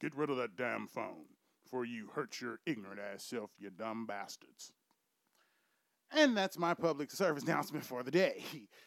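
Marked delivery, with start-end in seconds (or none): 0.0-4.7 soft, low fatherly voice. Mid-rant, the speaker switches into imitating their father's voice. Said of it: "that's in my father voice".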